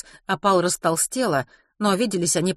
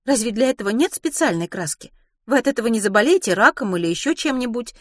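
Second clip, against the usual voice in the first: put-on higher-pitched, questioning young woman; mildly concerned question; 6 semitones higher than usual. Ruth questions Mrs Pomeroy about the paint, mildly concerned. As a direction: ask with light concern.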